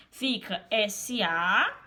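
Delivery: drawn-out spelled syllable; slow spelling. Shown as a demonstration. Teacher splitting syllables for Denis, slow spelling. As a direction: spell "S A" slowly and separately. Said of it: "separação silábica".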